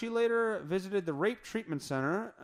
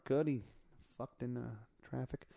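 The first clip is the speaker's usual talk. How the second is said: normal talking voice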